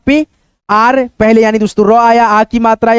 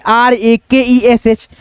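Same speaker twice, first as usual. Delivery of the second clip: slow spelling; much slower than usual. Shown as a demonstration. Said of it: "राकेश।".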